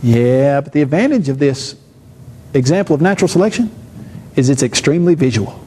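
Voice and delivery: with a grin. Retold or imitated. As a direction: say it with a sly grin, low. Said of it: "And I say, with a grin".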